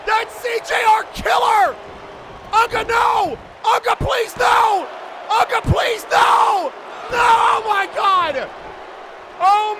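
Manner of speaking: high, loud, outraged commentator cries; horrified shouting. Real, not acted. Commentator sees the Outlaws interfere against Max, horrified shouting. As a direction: plead and yell in disbelief at the ring.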